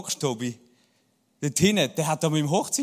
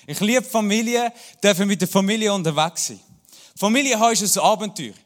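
enthusiastic; 2 semitones higher, 4 dB louder than usual. Shown as a demonstration. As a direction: announce it with joy: ich liebe Familie. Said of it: "Hey, ich liebe Familie".

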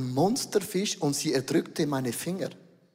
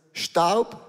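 slow solemn; much slower than usual. Acted. Funeral formula.

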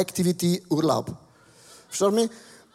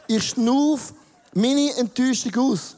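slow laughing breath demo; 4 semitones higher than usual. Shown as a demonstration. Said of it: "wirklich ein einfaches Beispiel".

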